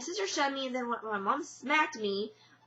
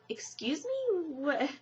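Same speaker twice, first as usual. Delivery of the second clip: high, startled "excuse me?"; like you can't believe what she just did; a retold flash of offended shock; shocked disbelief; 4 semitones higher, slower than usual. Retelling mom throwing the camera.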